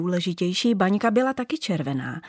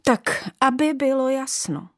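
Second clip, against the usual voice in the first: a lightly voiced haughty old ornament, lecturing; bossy old bauble. Old bauble lecturing the new ones, haughty. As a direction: lay down the law to the newcomers.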